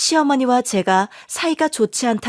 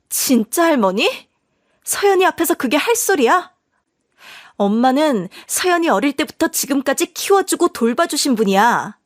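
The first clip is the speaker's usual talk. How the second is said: indignant wife. Acted. Wife defending daughter to husband.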